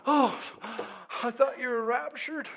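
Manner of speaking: imitating a child's loud, high panic; panicked child. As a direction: cry out as if left behind, hammed-up. Retold son's panicked cry to father.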